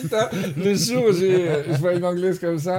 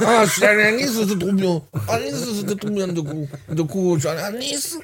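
put-on higher-pitched, caricatured Niçois accent; mock southern accent; 6 semitones higher than usual. Host imitating his guest's accent from Nice, hammed-up southern accent. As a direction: ham up a Côte d'Azur accent. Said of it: "Il est fantastique, cet accent".

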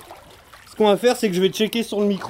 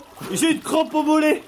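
pained, slow, higher cry of a cramp; getting a leg cramp; 7 semitones higher than usual. Real, not acted. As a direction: cry out with a real calf cramp. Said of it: "C'est vrai en plus".

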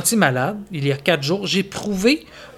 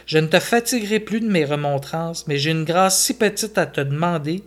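1 painful smile. Acted. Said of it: "avec un sourire douloureux".

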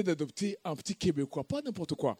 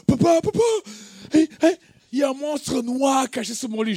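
high, loud mock-panicked cry; frightened child; 6 semitones higher, 4 dB louder than usual. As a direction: call out to dad in hammed-up terror. Enfant effrayé réveille son père. (enfant paniqué, cri aigu exagéré)

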